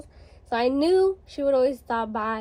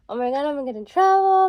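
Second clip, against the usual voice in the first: fast, louder panicked blurt; 3 semitones higher, 7 dB louder, faster than usual. Retold or imitated. To her friends as mom walks in, a fast, louder panicked blurt.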